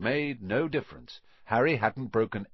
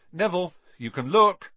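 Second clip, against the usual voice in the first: calling out; 7 semitones higher, 7 dB louder than usual. Acted. Ron calls to Neville.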